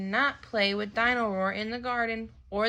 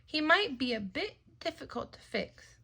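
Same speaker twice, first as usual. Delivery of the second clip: doubtful; 7 semitones higher than usual. Acted. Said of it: "says Daddy Pig doubtfully".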